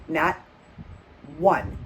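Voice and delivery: "Not" and "one" split apart, each word weighted; slow emphasis. Shown as a demonstration. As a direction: pause between "Not" and "one". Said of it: "Not one person came to our rescue".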